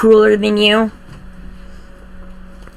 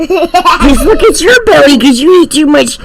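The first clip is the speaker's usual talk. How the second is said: playful teasing; 6 semitones higher than usual. Acted. Mom teasing son about belly.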